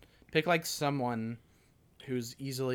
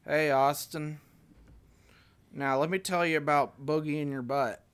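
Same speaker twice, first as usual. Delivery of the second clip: Bill Clinton impression; 2 semitones higher than usual. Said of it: "Oh, Bill Clinton".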